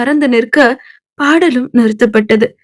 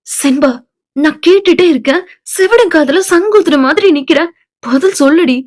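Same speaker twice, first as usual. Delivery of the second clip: firm demand; 3 semitones higher than usual. Acted. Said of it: "Malathi அழுத்தமாக கேட்க".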